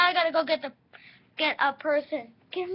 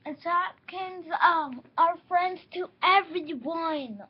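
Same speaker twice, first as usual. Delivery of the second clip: insistent lecture; 7 dB louder, slower than usual. Real, not acted. Lecturing toy-play rules loudly.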